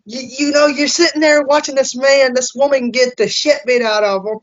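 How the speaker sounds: riled up, calling out the doubters, ends shouting; heated rant. Retold or imitated. Heated rant about fake blood claims.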